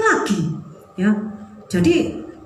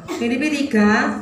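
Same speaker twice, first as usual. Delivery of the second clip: slow; 3 semitones lower, 3 dB quieter, slower than usual. Shown as a demonstration. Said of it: "ayo dibaca".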